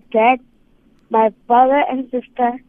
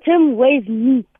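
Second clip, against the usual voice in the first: slow; slower than usual. Real, not acted. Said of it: "I thought you meant weigh".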